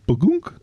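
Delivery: imitated notification sound. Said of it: "like, the, the notification".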